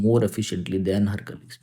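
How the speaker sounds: slow, deliberate answer phrase; teacher stating the answer slowly. Shown as a demonstration. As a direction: give the answer word by word. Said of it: "more efficiently लगाना पड़ेगा".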